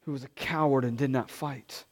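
prayer. Real, not acted. Pastor prays before sermon.

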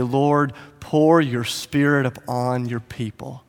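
slow, softened plea to God; solemn prayer. Acted. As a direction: pray it slowly and reverently. Priest's prayer voiced while pouring water.

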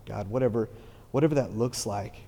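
unhurried, earnest prayer voice; closing prayer. Acted. Pastor praying the congregation out, earnest prayer. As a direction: pray the congregation out sincerely.

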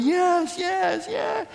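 high shouted yes from the crowd; eager crowd shout. Retold or imitated. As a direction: call out like a thrilled spectator.

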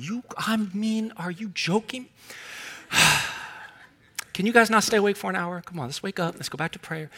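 soft, quiet disbelief, barely above a murmur; hushed weary rebuke to sleeping friends; Jesus tired of sleepy disciples. Retold or imitated. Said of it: "If I'm Jesus, I'm going".

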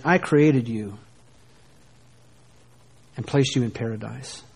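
low, subdued, measured voice of God; gentle God speaking. Acted. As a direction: explain it tenderly, with long pauses between phrases. God's patient answer, against the cruel reading.

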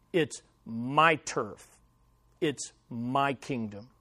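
a hint of a menacing mobster laying down the law; Don Fanucci. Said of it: "What was Don Fanucci saying?".

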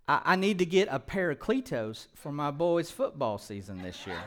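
a light Midwestern sentence, laughing through it; half-laughing Midwestern accent; mock Midwestern. Shown as a demonstration. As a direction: toss off the line like a Midwestern dad. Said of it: "if we used it in a sentence".

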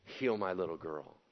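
imitating a desperate father, hushed; soft pleading cry. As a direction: plead softly, drawing the words out. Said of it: "And he cried out".

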